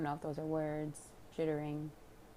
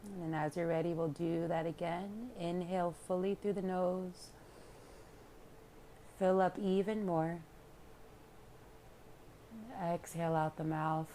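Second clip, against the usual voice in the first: unhurried calm guidance with long pauses; guided meditation; 3 dB quieter than usual. Real, not acted. Yoga teacher leading listeners into relaxation, calm meditation voice. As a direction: guide them inward, leaving room to breathe.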